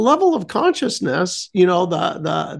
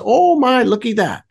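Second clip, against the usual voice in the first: raised, mock-amazed exclamation; playful wonder; 6 semitones higher than usual. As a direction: marvel lightly, as if retelling it. Re-enacting getting out amazed.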